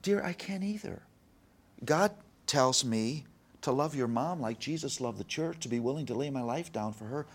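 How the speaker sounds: high-pitched, heartfelt retold confession; a touch of tearful earnestness; teary-eyed dad. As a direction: plead tenderly with an upset child, voice lifted. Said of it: "I'm teary-eyed now, and I'm saying".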